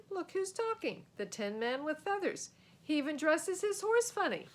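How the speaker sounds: mock the knight's outfit; snarky mockery. Sam scoffs at the knight's feathered armor.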